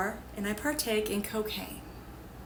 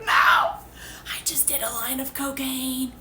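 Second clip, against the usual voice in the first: hushed confession; 2 semitones higher, 3 dB quieter, slower than usual. Retold or imitated. Retells confessing the drug to friend.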